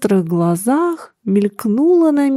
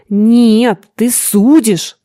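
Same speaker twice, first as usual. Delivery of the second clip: raised, slowed cry of accusation; furious father, louder; shouting old man; 4 dB louder, much slower than usual. Acted. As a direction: hurl it back at the son. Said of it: "кричал старик".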